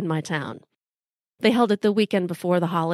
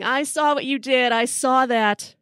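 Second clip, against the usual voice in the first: raised pitch, restrained volume; mild retold yell, drawn out at the end; mock yell; 4 semitones higher than usual. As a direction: imitate an angry teacher yelling, half-strength. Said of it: "my algebra teacher's yelling".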